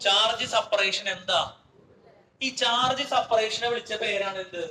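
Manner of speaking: slow, spelling out ചാർജ് സെപ്പറേഷൻ word by word; slow emphatic question. Shown as a demonstration. Teacher to students, drilling the term slowly. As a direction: drag out ചാർജ് സെപ്പറേഷൻ so the class catches it. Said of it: "എന്ന് പറയടാ".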